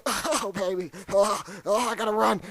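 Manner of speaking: hammed-up terror; mock panic. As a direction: scramble away in fright. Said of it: "I was like".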